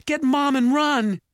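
very high, loud urgent shout; yelling. A narrator's reading. Mallory telling her brother to flee, yelling. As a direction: scream the order to flee. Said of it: "Mallory yelled".

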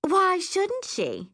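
high, slow, drawn-out purr. A narrator's reading. Liana challenges Rachel about the drink, slow purr. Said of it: "Liana purrs".

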